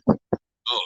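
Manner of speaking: straining grunt on a climb; effort grunt. Real, not acted. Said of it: "Sorry about all my grunting".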